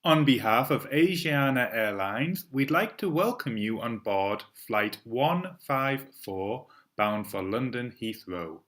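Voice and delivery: cabin crew announcement voice; bright, polished in-flight PA read; flight attendant. Shown as a demonstration. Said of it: "Please practice this cabin crew announcement".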